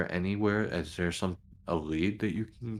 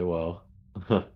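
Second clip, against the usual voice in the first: acted light chuckle after the first word; laughing; 4 dB louder than usual. Officer amused by the reporter's answer, laughing lightly. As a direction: break into a short laugh while replying. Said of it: "laughing, I'll say".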